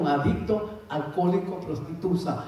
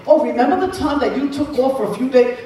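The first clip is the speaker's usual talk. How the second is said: imitating her brother; 5 semitones higher, 6 dB louder than usual. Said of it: "A veces mi hermano".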